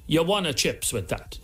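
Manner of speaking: slow Italian chip shop owner; lightly hammed-up Italian accent. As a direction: ask it in a put-on Italian accent. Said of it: "In his Italian accent".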